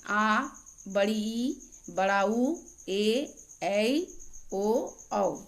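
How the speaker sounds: drawn-out vowels आ, ई, ऊ, ए, ऐ, ओ, औ, recited slowly one by one; long vowels. Shown as a demonstration. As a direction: hold each of आ, ई, ऊ, ए, ऐ, ओ, औ as a long sound. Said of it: "उच्चारण से दुगुना". (आ, ई, ऊ, ए, ऐ, ओ, औ को खींचकर दीर्घ स्वर में बोलें)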